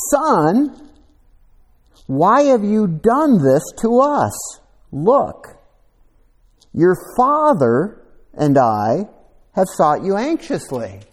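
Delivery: high, loud, pleading mother's cry; a worried mother calling out in alarm; distressed mother. Acted. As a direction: voice Mary, frantic over her missing son. Mary scolding her lost son.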